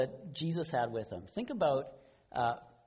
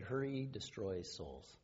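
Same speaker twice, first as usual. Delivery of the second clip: slow solemn quote; 4 semitones lower, 8 dB quieter, slower than usual. Retold or imitated. Quoting Ortberg's key line.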